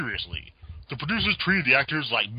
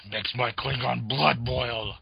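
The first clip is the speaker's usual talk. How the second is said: Michael Dorn impression; 3 dB quieter, slower than usual. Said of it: "my halfway decent Michael Dorn impersonation".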